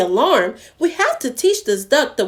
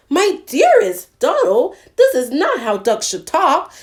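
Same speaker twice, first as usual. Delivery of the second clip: honking goose; 5 semitones higher than usual. Acted. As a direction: honk it out like a shocked goose. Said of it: "she honked".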